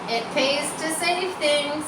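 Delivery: a surly rat's voice, lightly done. A narrator's reading. Rat boasting over his lost egg, lightly surly. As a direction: grumble it like a sulky rat. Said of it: "he said in his surly voice".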